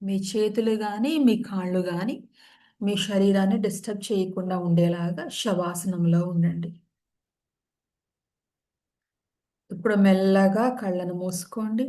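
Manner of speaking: calm, even yoga nidra guidance; measured meditation-teacher voice, unhurried gaps between phrases; guided meditation. Real, not acted. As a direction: settle listeners into stillness, with long pauses between instructions.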